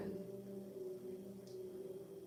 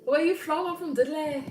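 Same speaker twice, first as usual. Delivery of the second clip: high, loud Black Country impression; Black Country accent; 9 semitones higher, 7 dB louder than usual. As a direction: put on a punchy Dudley, Black Country accent. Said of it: "It's a black country accent".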